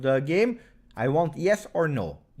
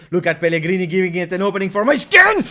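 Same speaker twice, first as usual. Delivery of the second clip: sudden loud burst of excitement, pitch jumping up; excited shout; 7 semitones higher, 11 dB louder, faster than usual. Real, not acted. Fan watching his team attack, excited shout. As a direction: yell it out as the chance opens up.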